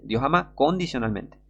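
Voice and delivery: "condicionalmente" set apart, CON leaned on; stress on condicionalmente. Real, not acted. Preacher correcting a false doctrine, stressing "condicionalmente". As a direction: lean hard on the CON of "condicionalmente".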